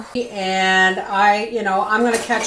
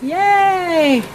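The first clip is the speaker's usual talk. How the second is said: high, louder happy cheer; gleeful yay; 9 semitones higher, 4 dB louder than usual. Real, not acted. Cheering over eleven trays of garlic, high and loud. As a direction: celebrate the full trays.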